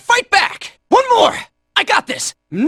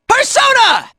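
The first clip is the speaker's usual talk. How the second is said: high, shouted battle call; summoning shout; 5 semitones higher than usual. Acted. Fighter summons his Persona, high shout.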